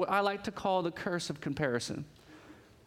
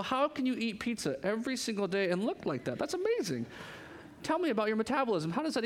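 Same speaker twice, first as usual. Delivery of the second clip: incredulous scroller; 3 semitones higher than usual. Retold or imitated. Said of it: "and they're like".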